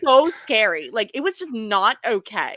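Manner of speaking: lightly voiced ditzy Valley Girl. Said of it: "the Super Valley Girl voice".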